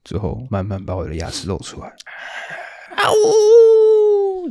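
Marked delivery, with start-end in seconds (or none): 1.9-4.5 high wolf howl; werewolf howl. Pretend. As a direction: throw your head back and howl. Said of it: "你有吗". (狼人嚎叫)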